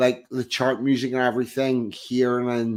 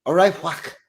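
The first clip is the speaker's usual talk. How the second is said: Liverpool accent; 3 semitones higher than usual. Shown as a demonstration. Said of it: "I can do, like, a Liverpool accent".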